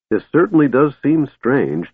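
enjoy the oddity; cheerfully. Acted. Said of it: "Tass said cheerfully".

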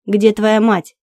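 loud barked question. Acted. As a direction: bark it into her face. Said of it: "рявкнул он".

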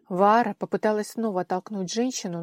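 ordinary delivery

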